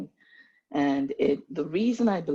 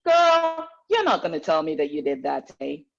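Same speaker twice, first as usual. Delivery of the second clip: Southern accent; 5 dB louder than usual. Shown as a demonstration. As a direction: put on a playful Southern US accent. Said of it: "I can do my southern accent".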